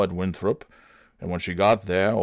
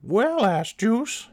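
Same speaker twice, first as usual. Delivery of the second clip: put-on much higher, slow cackling old lady; high old woman voice; slower than usual. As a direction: exclaim like a cranky old woman. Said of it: "Phyllis Gunt exclaimed".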